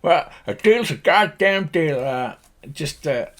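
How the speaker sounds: somewhat high farmer voice; lightly voiced country old-timer; gruffly agreeable Slim Pickens. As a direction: concede the bargain as an old cowboy. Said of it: "If you imagine Slim Pickens".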